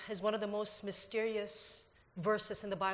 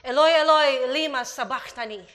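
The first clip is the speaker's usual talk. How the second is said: loud anguished cry, higher and louder; 4 semitones higher, 13 dB louder than usual. Acted. Preacher reads Jesus crying out from the cross, loud. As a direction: cry it out to heaven. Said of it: "Jesus cried with a loud voice".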